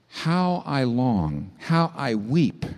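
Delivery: slow, drawn-out longing; yearning plea. Acted. God pleading for his people, slow and longing. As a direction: ache through each slow word. God's longing voiced in sermon.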